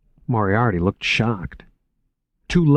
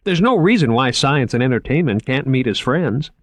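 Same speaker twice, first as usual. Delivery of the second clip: higher, keen salesman voice; lightly raised, enthusiastic museum man; eager curator Moriarty; 5 semitones higher, 4 dB louder than usual. Acted. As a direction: pitch the exhibit like an excited young curator.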